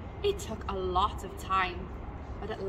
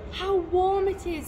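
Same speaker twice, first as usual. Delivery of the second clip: high, louder exclamation; delighted child character; 10 semitones higher, 6 dB louder than usual. A narrator's reading. Child delighted with new nest.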